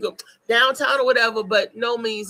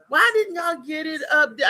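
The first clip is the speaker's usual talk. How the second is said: exasperated shout; 5 semitones higher than usual. Real, not acted. Scolding listeners for missing sale.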